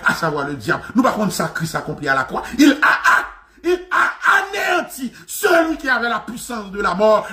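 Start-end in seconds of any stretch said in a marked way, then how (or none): 2.6-7.3 higher, ringing shout; pulpit shout. Real, not acted. Preacher repeating the verse, shouting it higher. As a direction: cry the verse out to the room.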